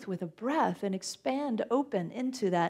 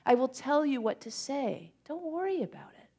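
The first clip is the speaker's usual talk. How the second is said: reassuring God; 4 semitones higher, 3 dB louder than usual. Acted. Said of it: "And God says".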